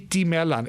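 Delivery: mittemellan, mit-te-mel-lan, Swedish; Swedish word. Shown as a demonstration. Guest repeating the Swedish word for the host, mittemellan in Swedish. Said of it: "It literally means in between".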